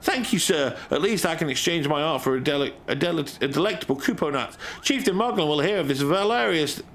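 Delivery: character voice. Acted. Streamer voicing NPC in game.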